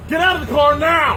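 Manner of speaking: barked police command; shouted surrender demands. Real, not acted. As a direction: shout the order at the driver. Police stop, officer shouting orders.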